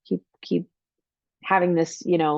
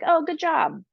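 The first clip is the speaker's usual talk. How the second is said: higher, offhand "Oh, good job" with a falling "Oh"; empty praise; 9 semitones higher than usual. Shown as a demonstration. Parent giving a child quick throwaway praise, offhand. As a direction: toss off a hollow "Oh, good job". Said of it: "instead of like".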